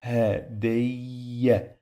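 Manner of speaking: Hadayya drawn out as ha-dayy-ya; doubled y. Shown as a demonstration. Teacher showing what the shadda mark means, doubled y. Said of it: "pronounce it two times".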